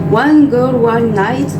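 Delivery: title said in a light English accent, slowly; playful English accent on the title. Shown as a demonstration. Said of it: "avec mon accent anglais".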